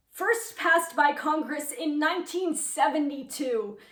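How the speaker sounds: measured, emphatic voice-over read; formal report read. Acted. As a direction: read it like a news feature, clearly articulated. Reads a report about the play.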